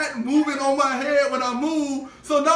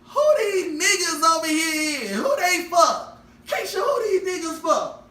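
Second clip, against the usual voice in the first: put-on drunk mom yelling; 4 semitones higher than usual. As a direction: holler at the strangers in her house.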